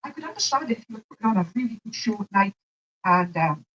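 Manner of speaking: words shaped around a retainer; talking with retainer in. Real, not acted. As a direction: speak with a retainer in your mouth. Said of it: "I've got my retainer in".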